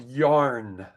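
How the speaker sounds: YARN drawn out slowly with a clear Y; word demonstration. Shown as a demonstration. Teacher supplying the word for the letter Y, YARN pronounced slowly. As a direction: stretch out YARN for the learner. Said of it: "has to be the letter Y".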